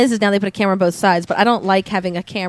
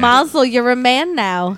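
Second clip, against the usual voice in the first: annoying Jewish voice; slower than usual. Pretend. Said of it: "most annoying Jewish voices possible".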